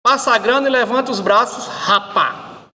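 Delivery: a light carioca accent on a mock robber; a carioca robber, a bit rushed; light Rio accent, mock street threat. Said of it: "O assaltante carioca".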